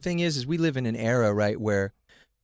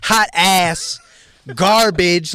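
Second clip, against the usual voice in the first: mocking dismissal; 4 semitones higher, 9 dB louder, much slower than usual. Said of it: "like they be doing".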